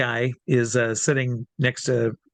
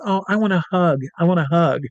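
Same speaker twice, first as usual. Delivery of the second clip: higher-pitched imitation of an eager fan; eager pleading; 4 semitones higher than usual. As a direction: ask like a delighted fan wanting affection. Star begging performer for a hug.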